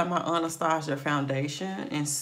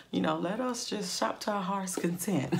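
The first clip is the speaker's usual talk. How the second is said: laughing; 5 semitones higher than usual. Real, not acted. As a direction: say it with a laugh coming. Joking about shopping.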